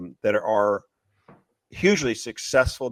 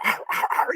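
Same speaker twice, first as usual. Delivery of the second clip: dog growl. Retold or imitated. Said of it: "this dog, like, running after".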